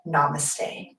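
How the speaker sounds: soft closing. Real, not acted. Closing bow of yoga class.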